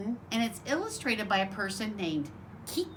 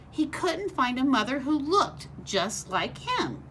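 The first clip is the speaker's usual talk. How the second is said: lively storybook read-aloud voice; reading to children. A narrator's reading. Teacher reading a picture book to her class, bright storytelling voice.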